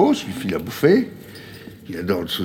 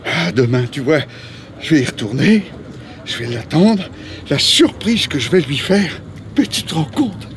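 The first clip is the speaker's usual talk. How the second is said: climbing pitch, each phrase lifting higher; excited anticipation; 4 semitones higher, slower than usual. Acted. Rico plans to surprise Léa, mounting excitement. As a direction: build the plan eagerly, stretching the surprise. Dreams aloud of meeting Léa again.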